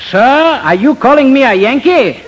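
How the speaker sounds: overdone fake Southern charm; fake Southern accent. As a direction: play a phony Southern gentleman. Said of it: "pardon by me the southern accent".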